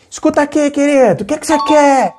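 high, loud, aggressive confrontation; picking a fight. Shown as a demonstration. Woman confronting her partner, high and combative. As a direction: snap at him like you're starting a fight. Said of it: "Eu não tenho que falar isso brigando com a pessoa".

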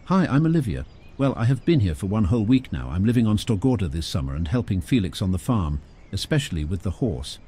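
a lightly voiced cheerful girl introducing herself; young Olivia. Olivia answers Henry.

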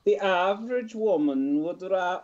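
lightly attempted Welsh accent. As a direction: have a go at a sing-song Welsh accent.

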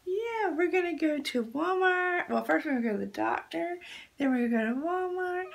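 ordinary delivery

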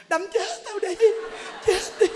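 high-pitched daring cry; mock hysterical wife. Wife lunges at beating husband, hammed-up hysterical cry. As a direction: wail it out as a challenge. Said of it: "khóc hoặc là nhào vô".

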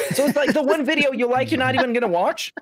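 high-pitched, laughing incredulity; amused disbelief. Real, not acted. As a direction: question it in real disbelief through a laugh. Laughing disbelief at the skipped video.

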